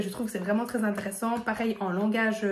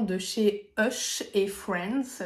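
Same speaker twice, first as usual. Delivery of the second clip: « Hush et Friends » dit lentement, avec un accent anglais; accent anglais pour rire; much slower than usual. Shown as a demonstration. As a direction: prononcer « Hush et Friends » à l'anglaise, en traînant, pour s'amuser. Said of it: "avec mon super accent anglais". (accent anglais appuyé sur « Hush et Friends »)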